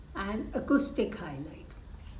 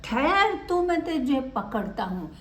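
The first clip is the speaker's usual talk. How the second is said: angry dog; 3 semitones higher than usual. Acted. Teacher voicing the dog chasing the cat, high shout. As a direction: call out to stop the thief. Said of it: "कुत्ता बोला".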